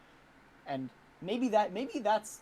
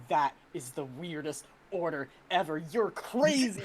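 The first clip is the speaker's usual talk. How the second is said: mock amazed employee. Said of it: "saying, like".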